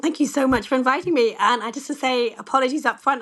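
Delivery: slightly croaky, hoarse throat. Real, not acted. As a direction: speak through a croaky throat. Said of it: "I've got a slightly croaky voice".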